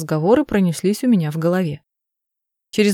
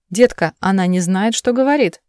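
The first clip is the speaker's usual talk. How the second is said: urgent plea. Acted. Adam pleads against Pammy.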